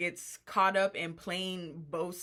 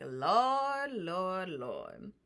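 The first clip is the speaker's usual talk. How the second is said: mock dismay; much slower than usual. Viewer reacting to the house fight, comically dismayed.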